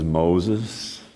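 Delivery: low, soft summons; hushed low voice of God; commanding divine call. Acted. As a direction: call his name from above. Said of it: "God says".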